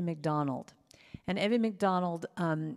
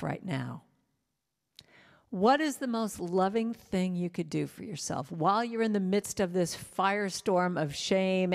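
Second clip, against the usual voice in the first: tender self-talk. Retold or imitated. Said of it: "I put my hand on my heart".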